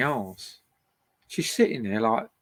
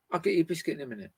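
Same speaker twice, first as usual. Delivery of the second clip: quoting dog's thought; 5 dB quieter, much faster than usual. Retold or imitated. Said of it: "Is that what you're saying?".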